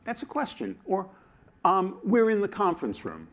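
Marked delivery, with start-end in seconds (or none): 2.0-3.3 tune drops at the end of room; settled statement fall. Shown as a demonstration. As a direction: state it flatly, closing down. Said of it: "It falls at the end".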